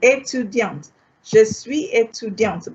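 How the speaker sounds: étudiante said with the final T sounded; étudiante, T pronounced for a girl; feminine étudiante. Shown as a demonstration. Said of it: "because Vimala is a girl, so you add an E".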